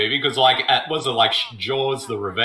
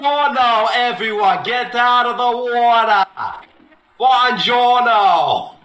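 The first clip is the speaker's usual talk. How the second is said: hammed-up Italian accent lifeguard shout; Italian Mark Wahlberg shouting; 7 semitones higher than usual. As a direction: bellow at beachgoers in a cartoon Italian accent. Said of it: "what would Italian Mark Wahlberg sound like".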